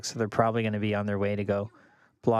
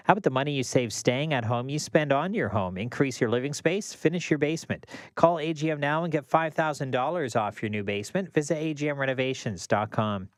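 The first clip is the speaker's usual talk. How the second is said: ad read. Acted. Reads a radio ad.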